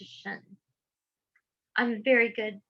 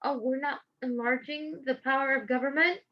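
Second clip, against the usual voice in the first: softer, rising mock disbelief; sarcastic echo; 7 dB quieter than usual. Speaker mocks the clause she just read, softly sarcastic. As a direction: throw the words back with scorn. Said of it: "as abridging and not enlarging".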